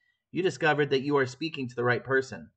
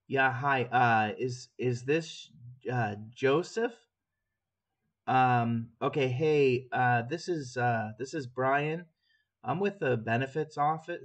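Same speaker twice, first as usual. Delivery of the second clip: slow, fumbling, unsure sales call; halting nervous cold call; hesitant bad caller; slower than usual. Shown as a demonstration. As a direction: stumble through it like a nervous rookie. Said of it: "That's terrible".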